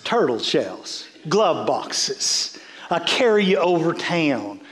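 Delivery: low, unhurried grandmothers' country accent; country accent from childhood, pitched low. Shown as a demonstration. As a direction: slip back into your grandmothers' country accent. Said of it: "I'd begin to talk like that".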